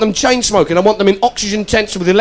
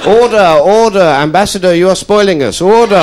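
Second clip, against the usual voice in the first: loud, booming order call; Speaker calling order; 3 dB louder than usual. Pretend. Speaker silencing the Commons, booming. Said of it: "House of Commons".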